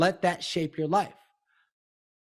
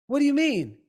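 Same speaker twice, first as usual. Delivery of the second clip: mock puzzled client; 8 semitones higher, 3 dB louder than usual.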